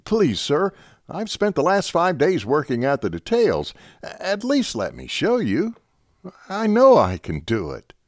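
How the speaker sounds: lieutenant begging the captain to look at his notes; pleading. A narrator's reading. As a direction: beg to be heard.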